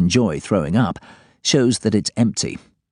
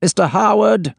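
sharp reprimand; 12 semitones higher, 3 dB louder than usual. Acted. Boss cuts him off.

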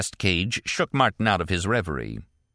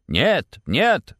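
higher, louder Russian "Niet", rising; discordant chorus; 10 semitones higher, 5 dB louder than usual. A narrator's reading. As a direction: scientists answering in a ragged chorus. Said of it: "in a discordant chorus".

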